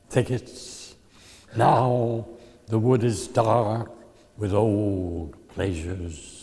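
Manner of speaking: slow, measured poetry recital; slow poem reading. Acted. Poet reads The Long River to the audience, slow and measured. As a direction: let each image hang, slowly.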